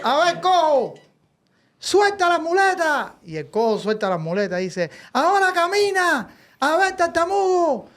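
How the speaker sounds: high, commanding preacher voice; mock preacher commands. Preacher ordering the lame and stutterer, high commanding voice. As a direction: command them like a faith healer.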